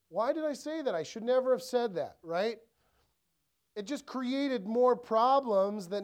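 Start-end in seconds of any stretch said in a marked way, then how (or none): 0.1-2.2 raised pitch, openly kicking yourself; mild self-reproach. Retold or imitated. Spouse regretting the words just said, mildly dismayed. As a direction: lift "Why did I" high, a touch dismayed.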